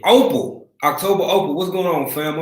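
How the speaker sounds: light up as she joins the chat; excited shout-out. Real, not acted. Greets a viewer by name.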